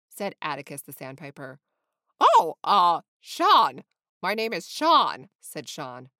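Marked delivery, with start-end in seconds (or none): 2.2-5.3 loud, hesitant, then emphatic; eager, over-loud awkward introduction; flustered flamingo. A narrator's reading. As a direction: blurt your name out, caught off guard.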